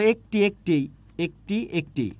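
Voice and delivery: একটি repeated with a closed, tight e; closed e in ekti. Shown as a demonstration. Teacher to class, drilling একটি with a closed e. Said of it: "তখন সেটা কি? সংবৃত".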